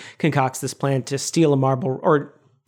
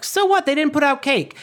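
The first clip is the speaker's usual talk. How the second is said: high exasperated George; 9 semitones higher than usual. Retold or imitated. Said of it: "George says something like".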